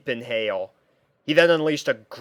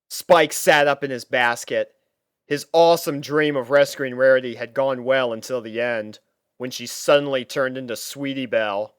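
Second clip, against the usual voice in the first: usual speaking voice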